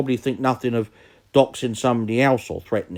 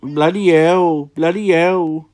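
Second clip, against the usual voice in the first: slow, drawn-out mock-Welsh accent; Taffy; 3 semitones higher, slower than usual. Shown as a demonstration. Mocking a YouTuber's catchphrase, slow mock-Welsh accent. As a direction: stretch it out in a Welsh lilt. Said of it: "Just doing a, uh, Taffy impression".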